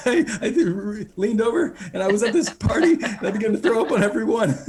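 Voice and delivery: high, loud giggling confession; charmed Rick oversharing while giggling; Rick, laughing. Acted. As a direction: blurt it out through laughter. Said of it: "He's like".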